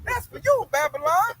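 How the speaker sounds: high put-on taunting voice; mock taunt. Host voicing a nation jeering at America, high. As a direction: jeer like a missile-launcher gloating.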